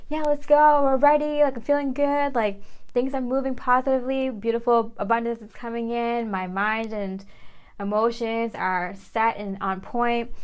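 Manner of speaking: eager hype that settles down; pumped up, then winding down; excited, fading to calm. Retold or imitated. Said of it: "the divine masculines and feminists are so like".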